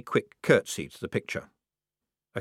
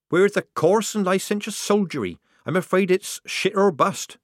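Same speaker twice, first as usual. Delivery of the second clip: higher, louder hammed-up bravado; Polly teasing Shufti; mock-coarse soldier; 10 semitones higher, 4 dB louder than usual. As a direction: play the rough soldier.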